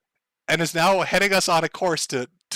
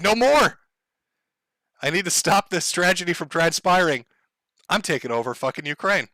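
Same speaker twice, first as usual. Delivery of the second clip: mock dictator declaring war; Putin impression. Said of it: "Vladimir Putin had enough. He said".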